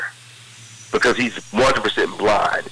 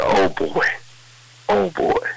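stunned exclaiming; 8 semitones higher, slower than usual. Retold or imitated. Cosby stunned, heart racing.

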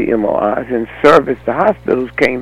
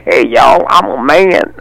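mock God yelling; 4 semitones higher, 4 dB louder, slower than usual. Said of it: "Did God yell down and say".

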